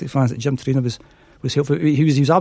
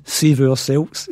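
drawn-out name; much slower than usual. Retold or imitated. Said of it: "it sounded bizarre when I actually said out loud".

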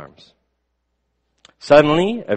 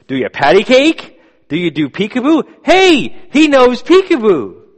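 put-on higher, louder, drunk old man calling across the room; shouting across room; 13 semitones higher, 8 dB louder than usual. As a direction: yell it across the restaurant like a tipsy old man. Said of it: "the man began to shout across the room".

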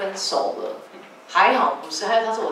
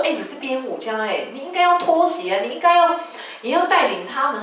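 higher, sharp scolding, pitch leaping up; scolding her brother; 6 semitones higher than usual. Retold or imitated. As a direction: tell him off for not leading. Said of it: "我就说".

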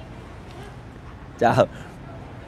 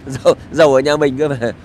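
words spilling out through a laugh. Real, not acted. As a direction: chuckle while repeating it. Laughs at rich emigrants. (cười khúc khích khi nhắc lại)

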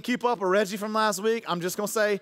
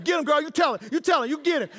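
higher and louder, egging her on; cheering shout; 7 semitones higher, 4 dB louder than usual. Retold or imitated. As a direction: cheer your wife on. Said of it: "I was like".

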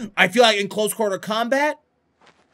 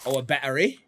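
put-on British accent on battery; mock British accent; 4 semitones lower, 5 dB louder than usual. Player finds a battery, mock British accent. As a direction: say battery like a cartoon Brit. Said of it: "wanna say it in a British accent".

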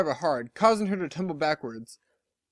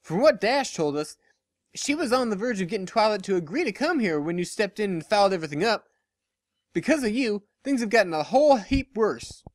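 higher, firm reproach; lightly voiced stern farm pony; 5 semitones higher than usual. Applejack telling Lyra she made things worse, sternly. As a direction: set her straight plainly.

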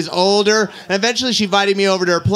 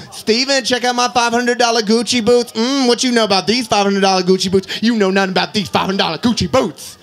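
sassy roommate. Retold or imitated. Gay roommate brags boots.

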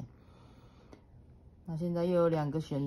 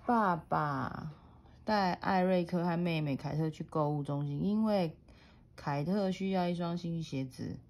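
put-on reading to a toddler. A narrator's reading. Mother reads picture book to child.

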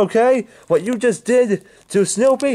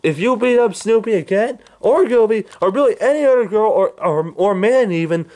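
furious; 7 semitones higher than usual. Acted. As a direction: lay into him in rage. Threatening, yelling at Black Yoshi.

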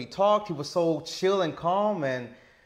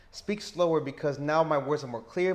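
slow. Shown as a demonstration.

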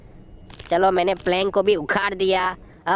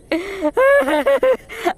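hammed-up fake sob, high; a badly faked blubbering wail; mock crying; 10 semitones higher, 3 dB louder than usual. Gamer fakes sobbing over Granny's broken stick, mock wail. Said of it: "मैं रो क्यों रहा हूँ यार?".

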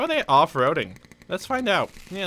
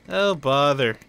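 a touch brighter, playful; mock exasperation; slower than usual. Shown as a demonstration. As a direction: sigh it out like Pooh.

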